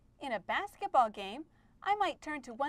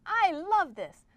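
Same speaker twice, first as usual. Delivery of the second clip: loud, high, slow gush; excited; 5 semitones higher, 7 dB louder, slower than usual. Pretend. Erica loving the lesson, eager for next time, excited. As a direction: gush with delight, stretching the words.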